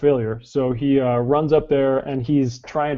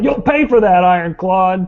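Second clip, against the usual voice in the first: high-pitched, loud yell; 6 semitones higher, 6 dB louder than usual. Voicing an innkeeper yelling at a fighter on the roof: innkeeper yelling. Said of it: "the innkeeper yells out".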